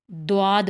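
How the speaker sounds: دواد starting on a d with a w glide; wrong dwaad. Shown as a demonstration. Teacher warns of another mistake, دواد with d and w. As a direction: say دواد as "dwaad", lips rounding. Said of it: "تو یہ بالکل غلط ہے".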